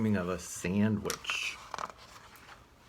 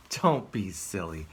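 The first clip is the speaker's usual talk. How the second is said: squirrel voice; 5 semitones higher than usual. Acted.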